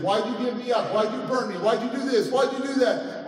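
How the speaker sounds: retold pleading accusation; hurt accusing questions. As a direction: fire each question at the person who hurt you. Retold confrontation with birth mother.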